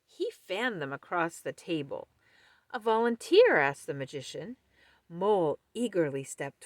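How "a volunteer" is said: showman call. Acted. Magician asks the crowd.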